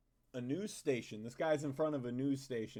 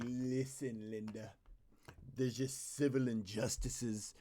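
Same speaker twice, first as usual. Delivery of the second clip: mock passionate speaker; 2 semitones lower, 5 dB quieter, slower than usual. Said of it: "I was speaking with full-on passion".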